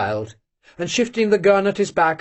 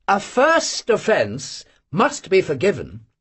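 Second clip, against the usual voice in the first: playfully; 2 semitones higher, slower than usual. Acted. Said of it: "said Olenin playfully".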